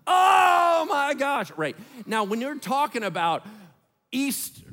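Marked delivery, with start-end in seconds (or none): 0.1-1.5 loud drawn-out wail, higher; wailing cry. Shown as a demonstration. Preacher showing his church loud public mourning, drawn-out wail.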